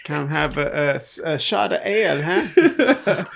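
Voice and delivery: put-on joking Scottish accent; rough attempt at a Scottish pub invitation.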